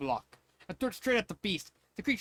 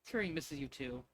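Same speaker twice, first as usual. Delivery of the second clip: sincere comfort; 3 semitones lower, 6 dB quieter than usual. Acted. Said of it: "Belle gave a sincere smile".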